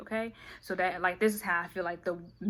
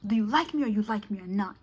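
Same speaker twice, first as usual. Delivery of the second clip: teasing whisper. Pretend. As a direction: hush it as a mock secret. Whispered version of the demand.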